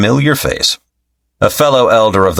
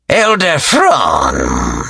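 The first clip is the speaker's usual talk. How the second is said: stern confrontation; 3 semitones lower, much slower than usual. Acted. Slifer confronting Fron.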